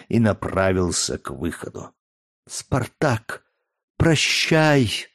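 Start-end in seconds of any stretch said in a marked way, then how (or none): 2.5-5.1 higher, voice rising and trembling on goodbye; trembling farewell. A narrator's reading. Valeria bids Spartacus farewell in a trembling voice. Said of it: "дрожащим голосом молвила".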